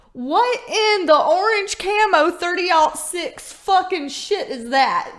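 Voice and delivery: hammed-up shock at the name; mock outrage. Real, not acted. Mock-outraged redneck exclamation.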